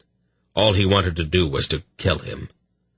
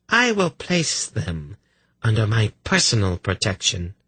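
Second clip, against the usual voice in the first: smug priestess voice; 4 semitones higher than usual. Acted.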